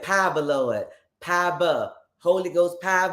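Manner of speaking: "Power" said as pah-buh; old saints' power. Retold or imitated. Host showing how old saints said it, "Power" as pah-buh. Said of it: "That's why they said".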